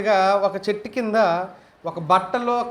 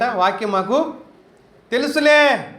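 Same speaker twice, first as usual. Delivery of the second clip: mocking scoff; 3 semitones higher, slower than usual. Preacher mocks hearers who say they know it, sneering. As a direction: throw the last word out scornfully. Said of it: "ఏంటంట?".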